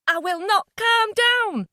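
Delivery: high slow furious shout; furious refusal. Acted. Mother shouting she will not calm down at Jay. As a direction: refuse him, full rage.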